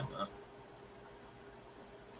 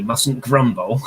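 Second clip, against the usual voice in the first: catchphrase; 2 semitones higher, 8 dB louder, much slower than usual. Shown as a demonstration. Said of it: "you must say".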